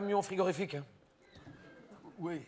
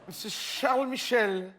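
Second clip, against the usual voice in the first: laughing; 2 semitones higher, slower than usual. Real, not acted. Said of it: "Ma langue a fourché".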